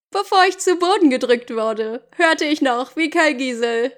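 measured audiobook reading; story narration. Acted. Jacob recounting losing Bella, story narration. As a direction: read it as Jacob's dramatic account.

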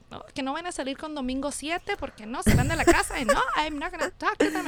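imitating dad. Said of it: "my dad would be like".

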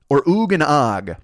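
slow, deliberate "Or Oog and Og?"; drawn-out "Or Oog and Og?" to compare the ring. Shown as a demonstration. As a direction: say "Oog and Og" slowly as if tasting the sound. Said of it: "what sounds better".

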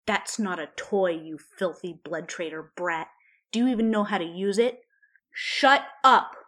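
taunting witch, rising to a screamed shut up; scornful witch. A narrator's reading. Bellatrix mocking Ron, then shrieking at him.

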